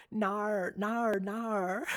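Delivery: mock Australian "no" with an R-coloured end; Australian accent. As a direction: imitate an Aussie drawn-out "nar". Imitating how Australians say no.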